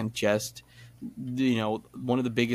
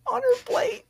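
laughing; 4 dB louder than usual. Real, not acted. Laughing while retelling scene.

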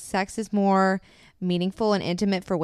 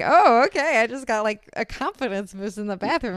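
put-on pumped-up girl; 4 semitones higher, 4 dB louder than usual. Girl after confidence boost.

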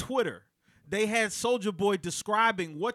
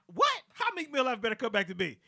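indignant what; 3 semitones higher, faster than usual. Retold or imitated. Rapper protesting to interviewers, indignant. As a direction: bristle at the comparison. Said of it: "He goes".

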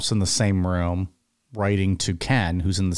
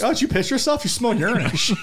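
mock disgusted voice; 12 semitones higher, faster than usual. Acted disgusted quote.

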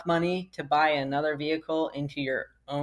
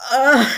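dismayed groan; 9 semitones higher, 12 dB louder than usual. Retold or imitated. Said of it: "and started crying".

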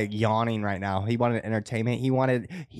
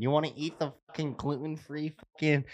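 mocking impression of Lauren. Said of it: "you wanna hear my Lauren?".

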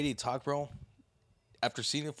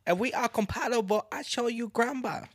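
high-pitched mock Asian accent; hammed-up Asian accent; 10 semitones higher than usual. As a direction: keep up the put-on Asian accent. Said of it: "I sound Asian".

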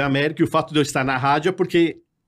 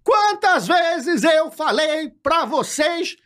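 much higher, slow shouted scolding; Carlos Alberto angry; 13 semitones higher, much slower than usual. Pretend. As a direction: fake the furious boss yelling at him. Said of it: "igual a voz, o Carlos Alberto". (bronca gritada, aguda e lenta)

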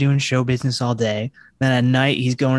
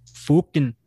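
brief attempt at Irish fighter; lightly put-on Irish accent; Conor McGregor. Co-host prompts host with one word, mock Irish fighter. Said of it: "Conor McGregor?".

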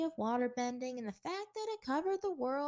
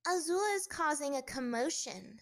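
tattling; 5 semitones higher, 4 dB louder than usual. Acted. Prim girl tattles.

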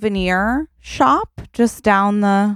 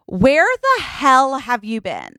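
slow, higher-pitched exasperation; impatient partner, drawn-out complaint; exasperated demand; 4 semitones higher, slower than usual. Acted. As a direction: demand an explanation, stretching the words. Acted partner waiting in the car.

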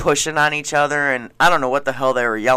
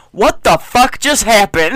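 stunned firefighter; 6 semitones higher, 5 dB louder than usual. Retold or imitated. Retold firefighter's stunned outburst.

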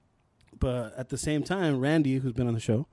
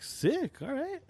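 pumped reply; 11 semitones higher, 5 dB quieter, much slower than usual. Retold or imitated. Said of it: "I was like".

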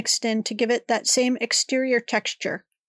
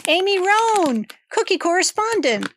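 announcer voice; 7 semitones higher, 4 dB louder than usual. Acted. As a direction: announce her like a TV segment. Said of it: "I know that was a little rough".

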